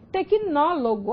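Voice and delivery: slow "tecnólogo", stress on the NÓ; stress on antepenultimate. Shown as a demonstration. Teacher showing where the tônica falls in "tecnólogo", stressing NÓ. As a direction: draw out "tecnólogo" to show its stressed NÓ. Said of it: "antepenúltima tônica".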